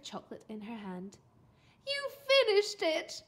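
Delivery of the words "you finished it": high, loud, slow question; amazed mum; astonished. A narrator's reading. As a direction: ask in utter disbelief. Mum astonished at empty bowl.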